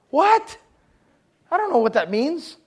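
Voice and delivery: jokingly lost; mock baffled. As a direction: play dumb at the big word. Mock confusion at fancy word.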